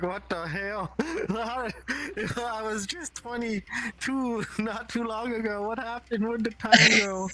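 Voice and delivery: laughing, panicked mock bewilderment; bewildered older self. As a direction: play the shocked thirty-year-old, half laughing. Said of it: "you're like".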